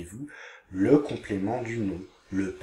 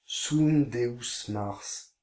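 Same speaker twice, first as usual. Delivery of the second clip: slow reading; much slower than usual. Shown as a demonstration. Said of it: "Je traduis".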